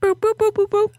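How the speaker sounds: high-pitched boop boop imitation; high beeping phone dial. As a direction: chirp it like speed dial tones. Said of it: "she'd be like".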